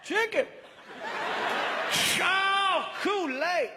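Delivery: high, gleeful exclamations; getting excited. Acted. Man pulling treats out of the basket, high excited cries. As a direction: whoop with delight at each treat. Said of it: "He's getting excited over every single item".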